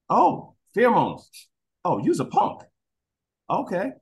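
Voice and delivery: dog mocking its frightened owner, high taunting voice. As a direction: sneer at the scared owner.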